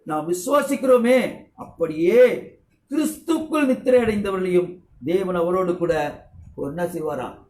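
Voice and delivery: measured preacher's recitation of the verse; scripture reading. Acted. Reads scripture aloud.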